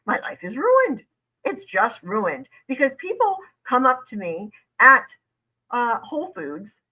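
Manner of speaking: high-pitched mock lament; hammed-up woe; mock victim. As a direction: imitate his self-pitying complaint, pitched well up. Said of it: "that entirely contradicts what he just said".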